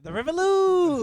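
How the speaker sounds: loud, slow, high ad call; booming announcer. Acted. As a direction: announce it like a grand product. Mock ad announcement.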